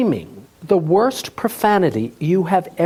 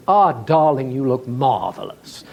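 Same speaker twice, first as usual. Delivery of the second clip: lightly voiced showbiz flatterer; a hint of a gushing talk-show host; Billy Crystal; 3 semitones lower than usual. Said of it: "a Billy Crystal imitation".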